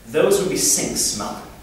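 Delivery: slow, lightly posh English; upper-class accent. Acted. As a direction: play the posh chum, drawn out. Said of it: "somewhat upper-class friend".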